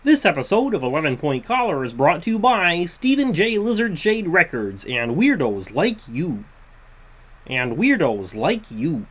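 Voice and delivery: lightly voiced frog puppet; a hint of Kermit reading an ad. Shown as a demonstration. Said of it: "getting into my Kermit the Frog voice".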